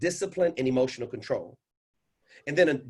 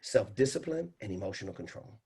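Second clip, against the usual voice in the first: soft, low voice after a long exhale; calm and controlled; 4 semitones lower, 6 dB quieter than usual. Shown as a demonstration. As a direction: settle right down, composed. Calm after long slow breath demo.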